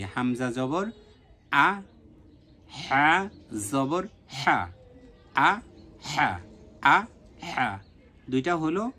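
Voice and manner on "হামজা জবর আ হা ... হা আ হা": আ হা said short and quick; quick harakah. Shown as a demonstration. Teacher repeats the quick harakah drill for students. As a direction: keep the harakah sounds brisk. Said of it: "আমি আবারও বলছি".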